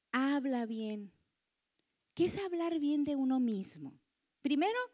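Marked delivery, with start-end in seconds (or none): 0.1-1.1 slow emphasis. Shown as a demonstration. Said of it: "habla bien de ti misma".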